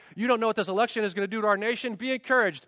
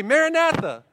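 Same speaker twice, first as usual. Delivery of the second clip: loud, high, excited greeting; ringing, exuberant church greeting; more excitement; 7 semitones higher, 7 dB louder than usual. Shown as a demonstration. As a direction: call it out with heightened excitement. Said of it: "with more excitement".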